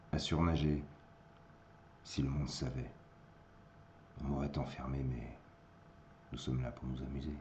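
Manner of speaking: measured poetry reading with long pauses; poem recitation. Acted. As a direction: recite verse phrase by phrase, letting endings drop.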